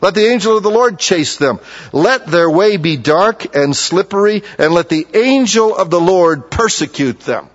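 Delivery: measured, solemn reading of the psalm; scripture reading. Acted. Preacher reading a psalm aloud to the congregation, solemn.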